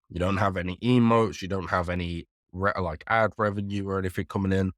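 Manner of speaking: talking with a runny nose; sniffly, stuffed-up speech; sniffling. Real, not acted. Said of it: "Excuse my sniffling".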